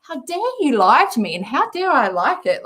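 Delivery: hammed-up indignation at the drink; playful fake fury, rising on the second line; mock outrage. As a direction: scold the kombucha like a betrayer. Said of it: "I was like".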